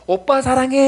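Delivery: put-on high, loud kid's declaration of love; little daughter. Small daughter declaring love at graduation, mock high child shout. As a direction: call it out like a kindergartner, high. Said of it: "저희 딸만".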